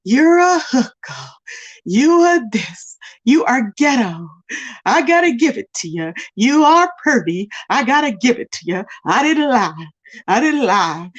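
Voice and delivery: mock repetitious rant. Vlogger mimicking Z X addressing Phi Babe, mock repetitious rant. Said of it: "it's the same repetitious thing".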